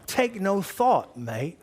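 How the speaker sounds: slow, loud, high mock-English accent; put-on English accent. Shown as a demonstration. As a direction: model an English accent slowly for the crowd. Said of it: "How many have a good English accent?".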